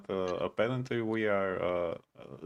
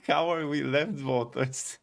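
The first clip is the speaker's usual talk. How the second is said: mocking quote; 3 semitones higher, slower than usual. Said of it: "and the guy said".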